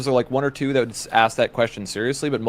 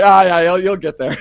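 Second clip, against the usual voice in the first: reassuring grandpa; 6 semitones higher, 9 dB louder than usual. Retold or imitated. Grandpa's reassuring reply, retold.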